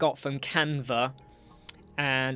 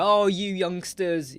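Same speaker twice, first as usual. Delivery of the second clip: slow, higher patronizing put-down; mock condescending voice; 4 semitones higher, 4 dB louder, slower than usual. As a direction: drawl it like a patronizing elder. Mocking people who call him young.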